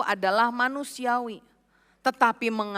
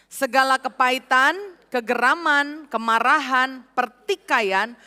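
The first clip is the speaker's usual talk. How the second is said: loud scripture reading. Real, not acted. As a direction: read aloud, louder and firm. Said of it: "Kita baca secara nyaring dua ayat ini". (membaca ayat dengan lantang)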